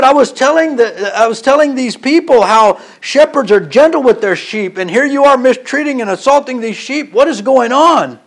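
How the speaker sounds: high-pitched, indignant retold scolding; upset tour guide. Guide scolds man for mistreating the sheep, acted indignation. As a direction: play the exasperated guide, pitch up but no shouting. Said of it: "He's so upset".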